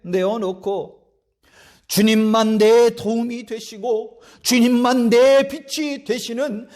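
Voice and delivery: slow, swelling recitation of the hymn words; lyrics recited. Acted. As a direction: read the lyrics slowly like a prayer. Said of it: "가사에 그렇게 적잖아요".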